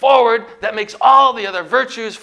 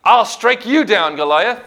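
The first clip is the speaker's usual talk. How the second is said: louder, higher challenge to a giant; defiant yell; 4 semitones higher, 6 dB louder than usual. Retold or imitated. David yells back at Goliath, defiant shout. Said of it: "He yelled back defiantly".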